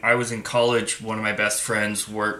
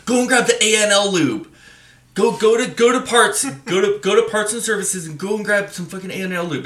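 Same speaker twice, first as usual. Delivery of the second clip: barked orders, higher and louder; impatient order; 10 semitones higher, 5 dB louder than usual. Retold or imitated. Mentor sends the new guy off, loud, high impatient bark. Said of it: "he's like".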